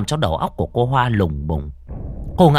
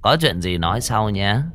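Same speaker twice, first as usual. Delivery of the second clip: gentle. Acted. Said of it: "dở giọng ôn tồn".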